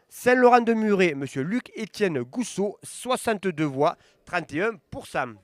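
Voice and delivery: results read-out. Acted. Reading election results to viewers, steady announcer voice. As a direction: call each town, then the numbers. Reads commune results aloud.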